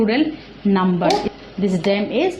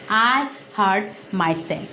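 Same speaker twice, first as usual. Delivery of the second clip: slow example; slower than usual. Shown as a demonstration. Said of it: "Now, for example".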